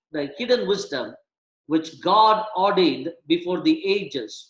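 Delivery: measured reading of the passage; scripture reading. Acted. Pastor reading Corinthians to the church, measured. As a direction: read the verses out steadily.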